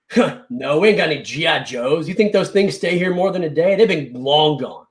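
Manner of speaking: mildly dismissive store clerk; rude. Retold or imitated. Stock clerk to customer asking for G I Joes, mildly rude. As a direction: brush the customer off rudely, mildly hammed-up. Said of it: "Super rude".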